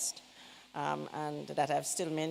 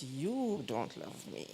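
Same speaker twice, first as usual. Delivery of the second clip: slow, softer, plaintive little voice; whiny child's guilt trip; 3 semitones lower, 5 dB quieter, slower than usual. Retold or imitated. A child pleading with mother, quietly hurt and plaintive.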